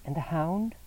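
frightened wife asking after him; anxious woman's voice. A narrator's reading.

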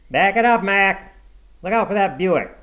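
high, loud parking-lot holler; yelled warning. A narrator's reading. Attendant stopping Mitty hitting a Buick, yelling. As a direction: yell at a careless driver.

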